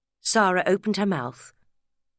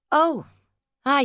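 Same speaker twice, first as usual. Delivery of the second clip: surprised; 9 semitones higher, 5 dB louder than usual. A narrator's reading. Gav caught off guard.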